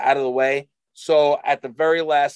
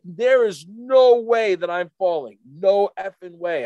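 retold emphatic refusal; 3 semitones higher, 3 dB louder, slower than usual. Young skier refusing to fall.

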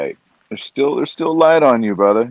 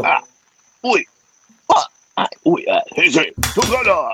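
fight sound effects; 7 semitones higher than usual. Pretend. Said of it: "we need you to make the sound effects".

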